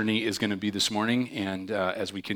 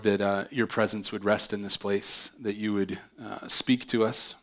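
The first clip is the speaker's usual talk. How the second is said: prayer. Acted. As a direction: pray humbly and sincerely to God. Leads a prayer.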